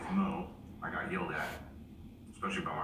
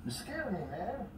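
startled; 12 semitones higher than usual. Real, not acted. Startled by friend.

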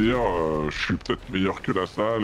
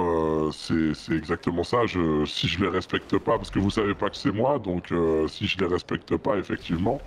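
disguised voice. Pretend. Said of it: "mais au moins j'ai ma voix trafiquée".

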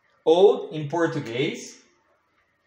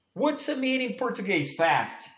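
put-on much higher, fast child's voice; childlike pupil question; 7 semitones higher than usual. Teacher plays a child asking the meaning in a high voice. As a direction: chirp it like a little pupil.

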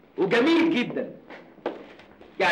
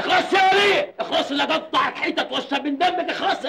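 angry shout; 4 semitones higher than usual. Acted. Yelling at old woman.

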